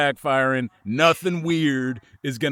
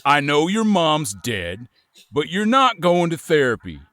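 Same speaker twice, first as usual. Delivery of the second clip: harsh scolding father voice; stern parent. Acted. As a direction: scold the kid like a strict dad. Stern parent berating child, improv.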